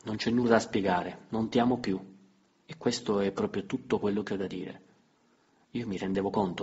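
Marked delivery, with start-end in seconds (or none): 0.0-4.8 louder, mildly annoyed; a bit irritated. Acted. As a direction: answer with mild irritation. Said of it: "Rispose un po' irritata". (un po' irritata, più forte)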